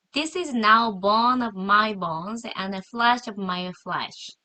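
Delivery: lightly acted, slow and loud quote of the man; the man's words. Teacher slowly voices Adam meeting the woman. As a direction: read the man's line slowly and loudly. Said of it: "The man said".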